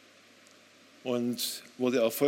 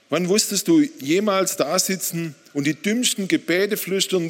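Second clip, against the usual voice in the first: raised, higher-pitched challenge; angry reproach; 4 semitones higher, 4 dB louder than usual. Retold or imitated. Husband asking God about helpless prayers, angry reproach. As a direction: press God with a heated question. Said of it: "Ich antwortete laut und wütend".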